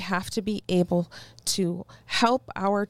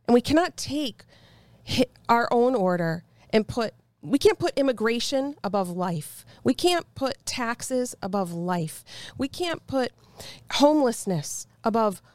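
raised, heated scolding, pitch up; mad mom voice. Real, not acted. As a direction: lecture them like a fed-up mom. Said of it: "It's my Mad Mom voice".

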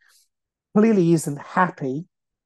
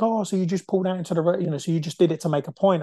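quick, slightly higher sarcastic imitation; mock sarcastic; 3 semitones higher, faster than usual. Driver retorting to the man who beeped, sarcastic. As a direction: imitate her sarcastic comeback in a rush. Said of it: "started to get sarcastic".

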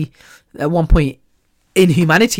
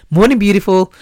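cheery self-greeting; 3 semitones higher, 4 dB louder than usual. Retold or imitated. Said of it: "I say morning to myself".

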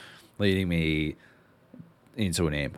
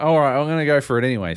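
loud, fast and higher, charging in; hammed-up go-for-it; rushed, pumped up; hyped retold line; 7 semitones higher, 7 dB louder, much faster than usual.

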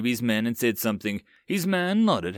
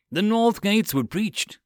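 frightened; 9 semitones higher, 3 dB louder, slower than usual. A narrator's reading. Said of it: "the frightened soldier replied".

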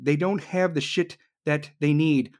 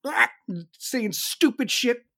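mocking Biden; 7 semitones higher than usual. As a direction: mumble like a confused old president.

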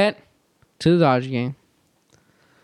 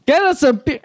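incredulous repeat; 9 semitones higher than usual. Retold or imitated. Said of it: "And I was like".

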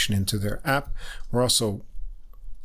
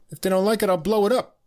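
retold threat; 9 semitones higher, faster than usual. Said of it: "And he said".

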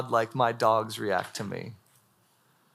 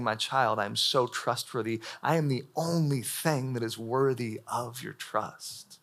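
tender; 3 semitones lower, 6 dB quieter than usual. Acted. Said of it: "He's saying".

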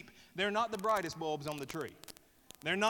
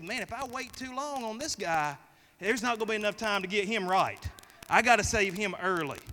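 voicing God; 3 semitones higher, 5 dB louder than usual. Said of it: "because he said".

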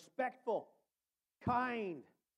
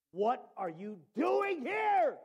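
still small voice; slower than usual. Acted. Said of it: "a still, soft voice".

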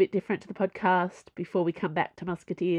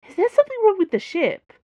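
alarmed; 13 semitones higher, 7 dB louder, faster than usual. Acted. Dana alarmed.

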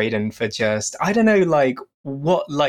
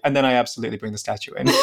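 deadpan; 2 semitones lower, much faster than usual. Retold or imitated. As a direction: say it totally straight-faced. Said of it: "completely deadpan".

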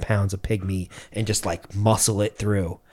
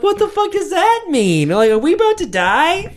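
high, loud panic; mock terror at the pilot's warning; panicked; 3 dB louder than usual. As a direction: scream it like the plane's going down. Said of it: "And I'm like".

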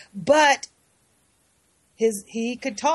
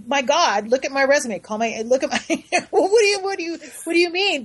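high, incredulous protest; indignant disbelief; 4 semitones higher, faster than usual. Retold or imitated. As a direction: sputter it out, shocked and offended. Retelling her protest to the producers.

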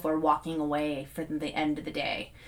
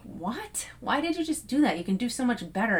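retold self-scolding, higher on the question; mildly incredulous telling-off of yourself; tough on oneself; 4 semitones higher than usual. Son scolding himself after a missed layup, tough on himself. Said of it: "getting, like, tough on myself".

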